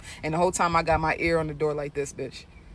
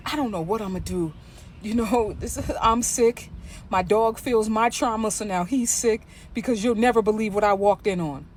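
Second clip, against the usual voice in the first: higher, chatty gossip voice with a laugh; 5 semitones higher than usual. Retold or imitated. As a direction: play the dramatic lady venting on the phone. Overheard lady loud on phone.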